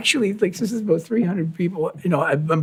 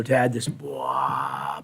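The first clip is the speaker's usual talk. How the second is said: very low, slow drone; low droning bass imitation; 13 semitones lower, 6 dB quieter, much slower than usual. Describing the Taurus bass pedals to listeners, very low slow drone. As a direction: hum it like a deep bass pedal.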